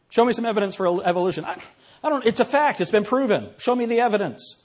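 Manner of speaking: high, huffy demanding voice; mock indignant skeptic. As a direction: play a smug skeptic. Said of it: "I've had people say that to me".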